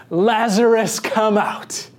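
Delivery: a restrained cry summoning someone out. A narrator's reading. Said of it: "cried out in a loud voice".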